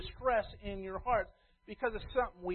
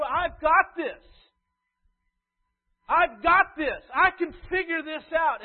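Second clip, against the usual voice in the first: mild mock know-it-all, getting louder; cocky churchgoer; 3 semitones higher, 7 dB louder than usual. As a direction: play a smug believer who shrugs off the Word. Voicing self-assured churchgoer.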